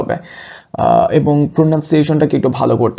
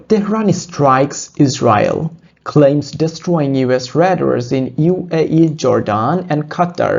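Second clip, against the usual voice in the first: slow headline read; much slower than usual. Shown as a demonstration. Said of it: "teacher reading headline aloud".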